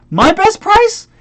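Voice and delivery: slow, very high incredulous question; indignant echo. Retold or imitated. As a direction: pitch soaring in outrage.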